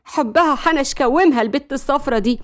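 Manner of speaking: mildly jealous outburst; understated jealous irritation. Acted. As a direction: let a touch of jealousy slip out. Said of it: "فشلت ملك إنها تداري الغيرة".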